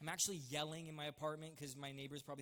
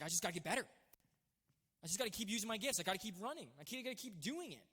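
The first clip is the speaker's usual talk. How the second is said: driven self-talk; 3 semitones higher, faster than usual. Retold or imitated. Retells his driven self-talk.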